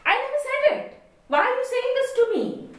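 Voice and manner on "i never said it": said lifted high and hit hard; stress on SAID. Shown as a demonstration. Teacher explaining the meaning, leaning on said. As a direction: press on said, as if denying. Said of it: "That I didn't say it".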